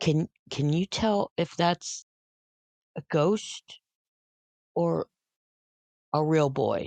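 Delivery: stage half-whisper. In a role-play scene, a player's character asks Finn something privately, half-whispering. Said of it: "I'm going to whisper to Finn".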